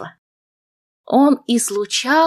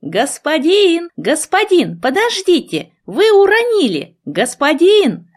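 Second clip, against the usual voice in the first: higher, louder calling after a man; 7 semitones higher, 3 dB louder than usual. A narrator's reading. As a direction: shout after him to make him stop. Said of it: "закричала".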